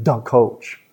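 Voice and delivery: THE as duh in a Chicago accent; slow Chicago-style nickname. Shown as a demonstration. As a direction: say it like a Chicago local. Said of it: "Mike Ditka would talk like that".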